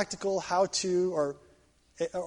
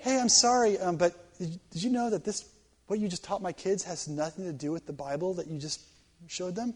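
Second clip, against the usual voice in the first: soft, restrained, tactful query; calm and polite; 4 dB quieter than usual. Acted. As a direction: raise the complaint gently and politely. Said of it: "really calmly and politely".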